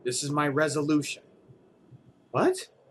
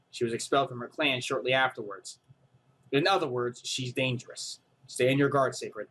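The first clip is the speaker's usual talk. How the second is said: lightly lower, even briefing voice; calm informant; 4 semitones lower than usual. Acted. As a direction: report the facts coolly like an aide. Yuma warning.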